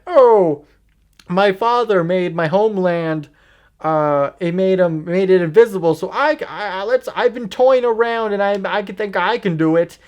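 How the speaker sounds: mock foreign accent, lightly put on; Diana's accent. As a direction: imitate a heroine's foreign accent. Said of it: "this is her accent".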